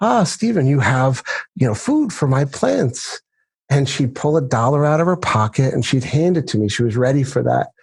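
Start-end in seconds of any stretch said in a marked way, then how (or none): 0.0-3.2 put-on woman's voice with an English accent. Retelling what a neighbor said to him over the fence: Miss Barker's English accent. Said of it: "who had like this English accent".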